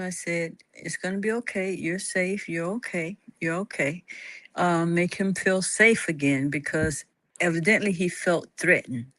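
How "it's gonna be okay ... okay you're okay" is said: put-on softer, soothing reassurance to a frightened child; calm reassurance. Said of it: "I talked calmly to him".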